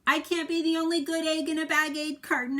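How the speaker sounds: fed up, declare it to the carton; exasperated good egg. A narrator's reading. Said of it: "I said".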